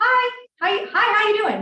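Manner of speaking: very high, sing-song, bouncy, eager enthusiasm. Explaining mirror and matching in sales, demonstrating an enthusiastic phone greeting. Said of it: "I'm always enthusiastic to get on the phone".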